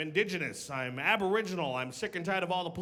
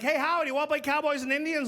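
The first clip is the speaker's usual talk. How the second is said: put-on kid friend voice; 9 semitones higher than usual. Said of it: "friends are like".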